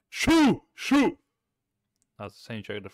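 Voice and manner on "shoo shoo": high, loud shoo; playful shout to scare them away. Pretend. Shooing a customer away in game.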